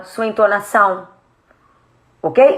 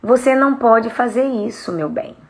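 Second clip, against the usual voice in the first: gentle. Shown as a demonstration. Parent telling a child no, gentle. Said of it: "Falar de um jeito manso".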